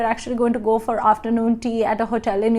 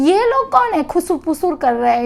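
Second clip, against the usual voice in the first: gossiping onlookers; 4 semitones higher, faster than usual. Retold or imitated.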